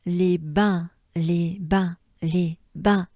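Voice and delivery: les bains with stress on bains; repeat after me. Shown as a demonstration. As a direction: drill les bains three times. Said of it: "pronunciation drill".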